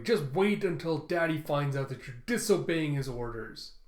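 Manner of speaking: a touch of angry shouting, held back. Acted. Prisoner to departing captor, understated angry shout. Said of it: "Quan just shouting angrily".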